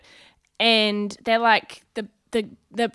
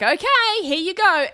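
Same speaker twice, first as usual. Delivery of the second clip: high, louder sing-out of consent; forced willingness; 9 semitones higher, 5 dB louder than usual. Retold or imitated. Comedian offers her cheek to the man, forced willingness. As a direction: give in with put-on breeziness. Acted giving in to persistent man.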